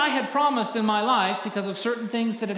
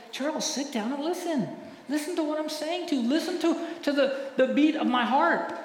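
voice of God; 7 semitones higher than usual. Acted. God voiced speaking to preacher.

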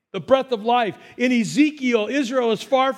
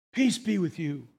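sincere blessing; 5 semitones lower, 6 dB quieter than usual. Acted. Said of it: "it's Jesus speaking into your soul today".

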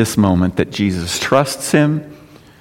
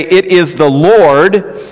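slow, higher emphatic repeat; drawn-out quote; 5 semitones higher, 3 dB louder, much slower than usual. Acted. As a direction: stretch the words out with weight. Same cry repeated, slowly drawn out.

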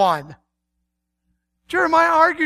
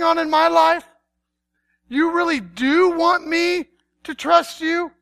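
mildly amazed questioning; dawning disbelief, questions lifting; incredulous; 3 semitones higher than usual. Acted. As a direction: ask it as if you can hardly believe it. Acts out astonished reply to God.

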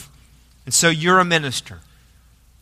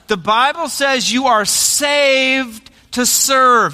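slow, raised preaching call; emphatic proclamation; 4 semitones higher, slower than usual. Real, not acted. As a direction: drive the point home to the congregation.

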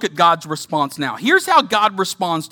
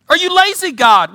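much higher, indignant question; incredulous; 10 semitones higher, 5 dB louder than usual. Acted. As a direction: fling the word lazy upward in disbelief. Voicing accusation, pitch jump.

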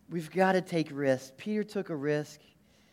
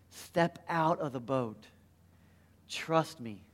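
gentle Jesus voice; 3 semitones lower, 4 dB quieter, slower than usual. Retold or imitated. Jesus voiced calling Peter.

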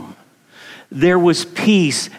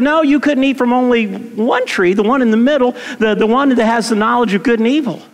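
God's command; 5 semitones higher, faster than usual. Retold or imitated. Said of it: "because God said".

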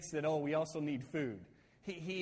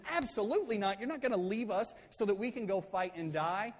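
retold indignant refusal, higher pitch; fired up; 4 semitones higher than usual. Moses refusing to be left to fight alone, fired up. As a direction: act out a worked-up objection. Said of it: "Moses is fired up".

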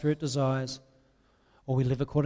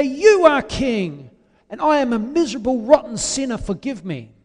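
penitent prayer; 6 semitones higher, 8 dB louder than usual. Acted. Acted prayer of a repentant sinner.

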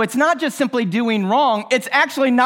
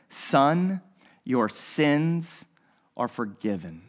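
hushed and tender, much softer; soft forgiveness; 8 semitones lower, 6 dB quieter, much slower than usual. Acted. Jesus gently tells the paralytic, hushed and soft. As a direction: speak it gently to the man on the mat.

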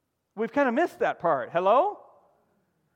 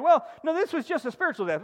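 mock objection; 6 semitones higher than usual. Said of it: "folks out there that wanna, like, argue".

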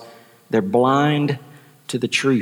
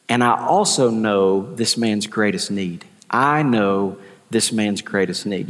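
calm Jesus; 2 semitones lower than usual. Acted. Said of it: "Jesus says".

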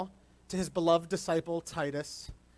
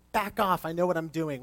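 defensive retort; 3 dB louder than usual. Retold or imitated. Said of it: "a flinching response of".

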